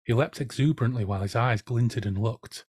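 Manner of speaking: measured reading aloud from a novel; story narration. A narrator's reading. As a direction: narrate the scene with deliberate phrasing and pauses. Reads book introduction aloud.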